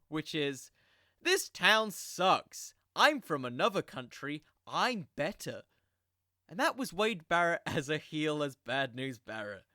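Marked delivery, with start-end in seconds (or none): 1.2-5.6 bad guy promo. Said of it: "the W W E bad guy promo".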